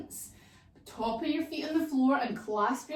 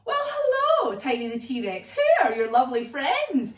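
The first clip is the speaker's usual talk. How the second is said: Colonel Crockles voice; 2 semitones higher, 6 dB louder than usual. Acted. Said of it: "And Colonel Crockle says".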